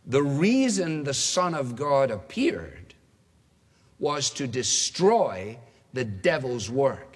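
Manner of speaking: slow, measured reading with weighty pauses; solemn quotation. Acted. Preacher reads the key verse to the congregation, slow and weighty. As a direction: read it out slowly, phrase by phrase.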